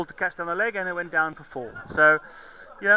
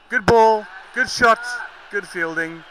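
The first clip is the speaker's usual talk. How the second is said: excited praise; 2 semitones higher, 4 dB louder than usual. Real, not acted. Praising a good passage of play.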